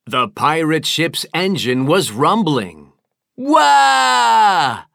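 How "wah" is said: loud, high painful wail; crying wail. Acted. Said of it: "Big Whale burst out crying painfully".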